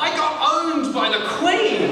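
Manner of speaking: loud, high, drawn-out cry; triumphant shout. Real, not acted. Comedian confessing his royal defeat to the crowd, exultant shout. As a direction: belt the confession out slowly to the whole room.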